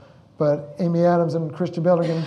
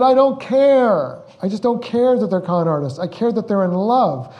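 passionate retold protest; 3 semitones higher, 4 dB louder than usual. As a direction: insist with mounting conviction. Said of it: "I said".

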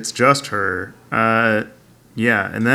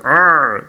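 mock pained roar; 3 semitones higher, 3 dB louder than usual. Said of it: "and he's like".

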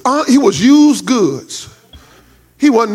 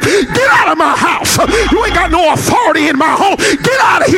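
rebuking a demon; 5 semitones higher than usual. Retold or imitated.

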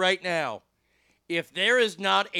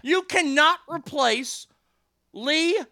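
indignant insistence; 7 semitones higher than usual. Real, not acted. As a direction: lay down the law, word by word. Indignant defence of Lee Majors.

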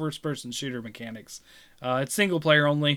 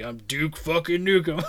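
a hint of the gruff hero, lower than the first take; deep Duke Nukem voice. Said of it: "deep Duke Nukem voice".

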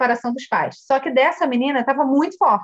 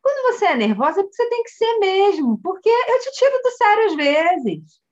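imitating a child calmly reassuring mom; higher-pitched, untroubled little-girl reply; matter-of-fact child, slowing at the end; 7 semitones higher than usual. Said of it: "bem tranquilo assim".

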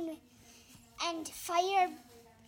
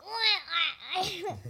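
mock crying wah; slower than usual. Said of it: "if I was a different bad guy, like a Joker".

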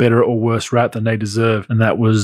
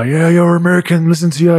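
mates mocking; 5 semitones higher than usual. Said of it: "they're just breaking my nuts".

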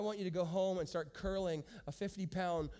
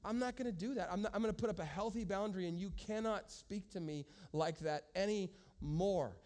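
calm but emphatic. Shown as a demonstration. Pastor shows the congregation a calm firm no. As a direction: state the boundary calmly, no heat. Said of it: "very calmly, but emphatically saying".

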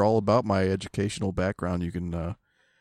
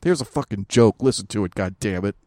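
louder, cursing mock outburst; mildly hammed-up anger; mock angry co-host; 4 dB louder than usual. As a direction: impersonate your co-host losing his temper. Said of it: "That was me impersonating you".

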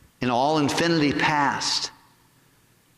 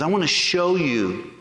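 solemn voice of God; 4 semitones lower than usual. Retold or imitated. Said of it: "He goes".

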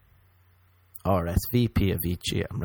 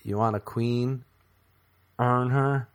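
mock show line; 2 semitones higher than usual. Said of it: "and then it was like".

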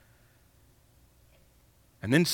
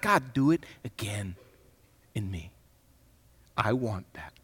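soft, murmured plea to God, much quieter; hushed prayer; 6 semitones lower, 9 dB quieter than usual. Pretend. A worshipper quietly whispering to God, hushed. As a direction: pray it under your breath, softer.

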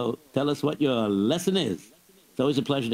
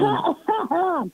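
laughing; 4 dB louder than usual. Real, not acted. Host laughing at tickling chaos.

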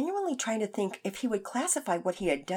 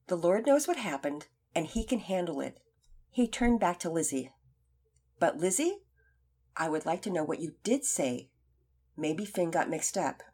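calm. Acted. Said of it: "Mister Cochran answered calmly".

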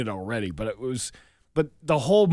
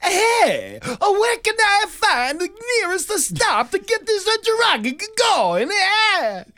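very high, loud cartoon Italian; cartoon Italian accent; 6 dB louder, slower than usual. Imitating a truck driver asking directions, loud cartoon Italian accent. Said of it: "cartoon Italian voice".

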